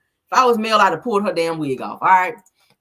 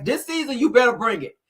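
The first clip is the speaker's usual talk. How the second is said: bossy high mock order from the producer, voiced lightly; lightly pushing her to bring drama; imitating Carlos; 7 semitones higher, 4 dB louder than usual. Producer Carlos pressing the host to stir drama, mock order. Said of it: "he probably told her ass".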